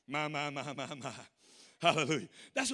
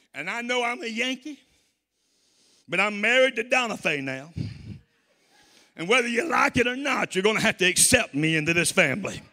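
put-on Jersey accent; 5 semitones higher, 8 dB louder than usual. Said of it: "with a Jersey accent".

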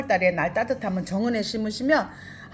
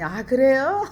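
a retold reply with a real laugh in it; 4 semitones higher, slower than usual. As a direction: answer through a laugh, a little higher. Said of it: "웃으면서".

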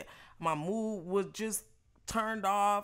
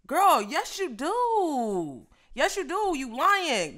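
calling her out; 7 semitones higher, 8 dB louder, much slower than usual. Retold or imitated. Retelling shouting back at coworker.

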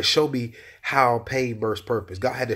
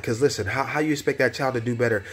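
climbing higher into an impassioned plea, much higher by the end; rising preachy rebuke; 6 semitones higher than usual. Retold or imitated. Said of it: "And I'm like".

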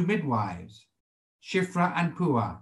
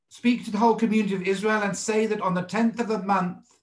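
higher, measured reading aloud of scripture; 3 semitones higher than usual. Acted. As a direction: read the verse out formally, pitched up, phrase by phrase.

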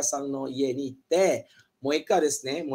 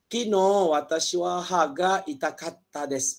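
slow careful sentence; slow model; slower than usual. Shown as a demonstration. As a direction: model it slowly.

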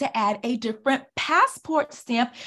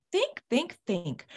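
coaxing; 7 dB quieter than usual. Shown as a demonstration. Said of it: "Take a minute".

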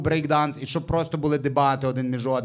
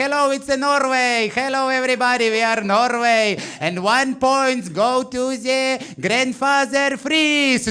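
high, slow broken-English Eurovision announcement; Norwegian jury announcer; 7 semitones higher, slower than usual. Retold or imitated. Norway's Eurovision jury announces points, high, slow and cheery. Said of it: "норвежці такі".

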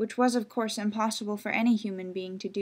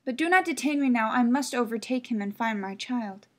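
hurried, louder, pressing plea; urgent mother; 2 semitones higher, 5 dB louder than usual. Acted. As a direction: rush it, she can't wait. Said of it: "said the mother".

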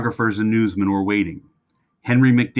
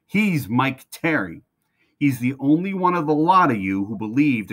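thundering; 4 semitones higher than usual. Acted. Trainer defending the new boy to the grooms, thundering. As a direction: thunder it out to silence the barn. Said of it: "His voice thundered".

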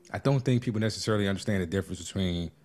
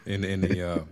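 winded from running up steps; out of breath. Real, not acted. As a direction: speak while catching your breath. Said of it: "I'm out of breath".

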